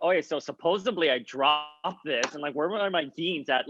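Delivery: lightly put-on Miami girl voice; Miami girl accent. Showing a friend the accent she hides, light Miami girl. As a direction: slip a little into Miami girl talk. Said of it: "I can be a crazy Miami girl".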